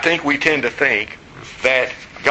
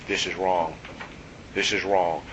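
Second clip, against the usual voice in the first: hushed accusing voice; 7 semitones lower, 9 dB quieter than usual. Retold or imitated. Imagined accusing voice.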